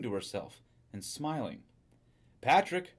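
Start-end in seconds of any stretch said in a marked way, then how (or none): 2.4-2.9 raised, higher-pitched call of a name. A narrator's reading. Wife home from the shop calls to her husband, calling out. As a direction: call to someone in another room. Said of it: "she called".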